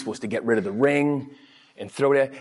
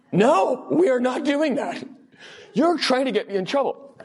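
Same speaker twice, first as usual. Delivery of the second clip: high indignant no; 11 semitones higher than usual. Retold or imitated. Man turning down his old teacher's road trip, high and indignant. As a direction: squeak out an outraged no. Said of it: "I'm just like".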